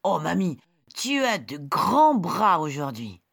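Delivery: put-on high, bright little girl. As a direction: play the small girl. Girl questions granny.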